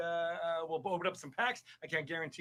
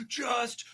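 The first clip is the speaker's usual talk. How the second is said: gasp; 10 semitones higher, 4 dB louder than usual. Retold or imitated. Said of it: "Shia LaBeouf where you're just like".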